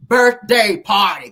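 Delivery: loud, slow, emphatic read; mock yell, each word stretched out; all-caps yelling. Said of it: "when they type in all caps, they yelling".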